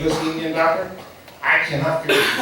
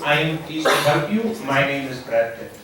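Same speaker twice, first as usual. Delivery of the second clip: put-on Indian accent; 3 semitones higher than usual. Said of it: "how come you don't talk with an Indian accent".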